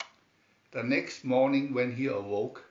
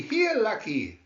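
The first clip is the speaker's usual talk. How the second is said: loud, high call across the woods; shouting; 9 semitones higher, 6 dB louder than usual. A narrator's reading. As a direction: call the lost mule from far off.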